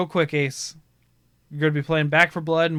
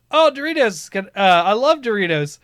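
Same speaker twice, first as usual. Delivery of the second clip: delighted guy; 5 semitones higher, 4 dB louder than usual. Retold or imitated. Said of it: "he's like".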